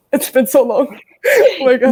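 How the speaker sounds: laughing at her own mistake. Real, not acted. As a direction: giggle through the words, embarrassed. Embarrassed after mixing up offense.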